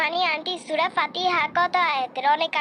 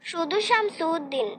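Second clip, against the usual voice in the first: scornful echo; slower than usual. Acted. Groom's sister mocks bride's father name.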